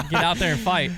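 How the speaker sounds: talking through laughter; laughing. Real, not acted. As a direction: laugh while saying it. Laughing at joke.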